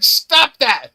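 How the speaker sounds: high, loud imitated yell; shouted command, played up. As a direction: mimic dad ordering a stop. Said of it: "he's like".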